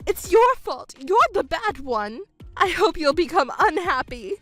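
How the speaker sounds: high, accusing outburst that settles a little; bitter blaming. Acted. Mother blaming stepdaughter for her loneliness, bitter and accusing. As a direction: throw the blame at them.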